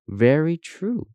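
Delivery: high, slow approving murmur; solemn agreement. Acted. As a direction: stretch it out as if impressed. Feigned agreement to please Compass.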